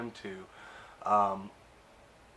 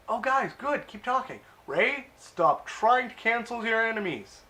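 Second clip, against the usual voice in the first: much higher, louder taunting villain impression; mock villain voice; 11 semitones higher, 8 dB louder than usual. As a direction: ham up a gleeful villain's mockery. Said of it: "And he's like".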